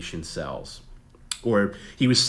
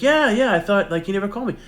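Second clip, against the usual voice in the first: very high, louder put-on voice; hammed-up famous actor, much higher and louder; Mark Hamill impression; 13 semitones higher, 8 dB louder than usual. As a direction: jump way up in pitch and push it out. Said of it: "He, he like".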